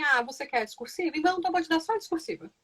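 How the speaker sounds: life talking. Retold or imitated. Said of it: "A vida não chega pra você e diz assim".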